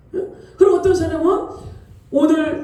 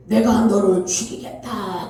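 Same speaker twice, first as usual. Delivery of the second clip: lower, ominous threatening voice; terrible fearsome voice; 6 semitones lower than usual. Retold or imitated. Voice claiming to be God threatening the believer, low and ominous. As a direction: menace him from somewhere lower and darker. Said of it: "엄청난 무서운 목소리로".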